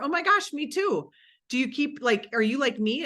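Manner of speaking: mild excited demo. Shown as a demonstration. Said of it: "you're an online entrepreneur?".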